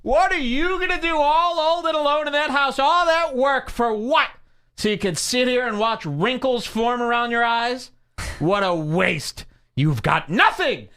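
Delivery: high, hoarse whispered taunt. Acted. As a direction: whisper mockingly about growing old.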